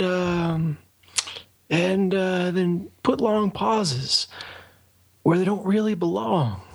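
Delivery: slow, with long odd pauses; NPR pauses. Shown as a demonstration. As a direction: drop long pauses where they don't belong. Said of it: "You gotta say everything like you just got punched in the gut".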